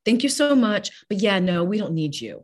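high, loud breezy brush-off; mock dismissive. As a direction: brush them off brightly. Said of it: "saying is no to the love".

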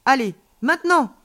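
high, loud go signal; urging. A narrator's reading. Alien child cues friend to fly now, urging. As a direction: spur your friend into takeoff.

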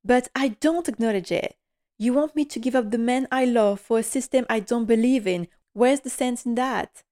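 mildly indignant retelling of Sybil's line; lightly voiced defiant Sybil. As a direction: quote Sybil with mild spirit, not a full performance. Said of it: "And then Sybil answers".

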